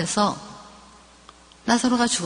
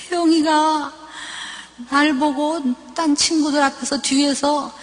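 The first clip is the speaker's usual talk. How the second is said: tearful complaint; 4 semitones higher than usual. Retold or imitated. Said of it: "막 엉엉엉 우는 거예요".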